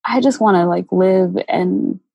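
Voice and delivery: tearful, pleading, voice catching on happy; getting emotional. Real, not acted. Guest recalling her darkest time, tearfully pleading to be happy. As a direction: voice welling up with real tears on the plea. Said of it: "gosh, I'm getting emotional now".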